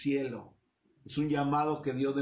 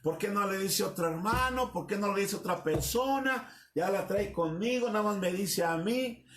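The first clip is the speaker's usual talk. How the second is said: complaining; 3 semitones higher than usual. Retold or imitated. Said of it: "se enoja y dice".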